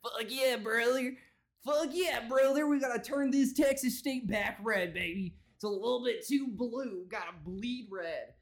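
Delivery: mock a rowdy rally supporter; whooping crowd yokel. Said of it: "idiots who are just like".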